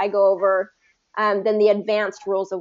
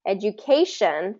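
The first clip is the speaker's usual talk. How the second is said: "Education" with stress on CA, just before "tion"; stress before the ending. Shown as a demonstration. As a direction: lean on CA in "Education". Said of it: "stress the syllable right before that ending".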